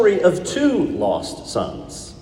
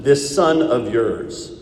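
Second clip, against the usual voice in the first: disowning scorn; 4 semitones lower, slower than usual. Retold or imitated. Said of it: "It's a way of disowning".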